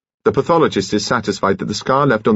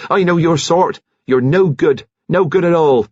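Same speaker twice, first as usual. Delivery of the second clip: louder, higher indignant scolding; 9 semitones higher, 4 dB louder than usual. Acted. Nurse berating Kitty, loud and high. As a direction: scold her with rising indignation.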